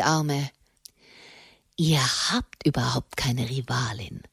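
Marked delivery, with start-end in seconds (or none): 1.8-4.2 hoarse whisper. Acted. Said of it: "flüsterte er heiser".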